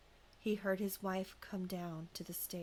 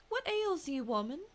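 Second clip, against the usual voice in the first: conjure man asking; 8 semitones higher, 5 dB louder than usual. A narrator's reading. Conjure man questions the woman.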